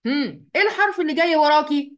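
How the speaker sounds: lightly acted chat, calling out to the letter noon; addressing the noon. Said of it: "وأقول".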